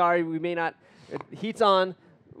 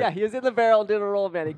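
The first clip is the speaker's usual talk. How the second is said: excited; 5 semitones higher, 6 dB louder than usual. Real, not acted. Reacting to barrel roll.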